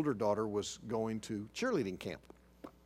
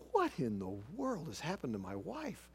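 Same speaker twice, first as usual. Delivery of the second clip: softer, higher retold bewilderment; mild, hushed mock disbelief; bewildered; 4 semitones higher, 5 dB quieter than usual. Husband trying to process what happened, bewildered. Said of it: "I'm trying to process this".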